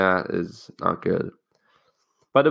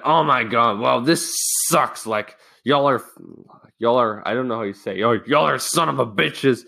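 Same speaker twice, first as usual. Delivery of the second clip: retold outburst; 2 semitones higher than usual. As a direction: imitate a classmate's exasperated rant. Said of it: "freaking loses it".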